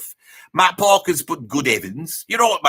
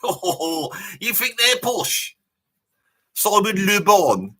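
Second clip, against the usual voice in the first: laughing disbelief; 2 semitones higher, much slower than usual. Real, not acted. Scoffs at the idea of a band being posh.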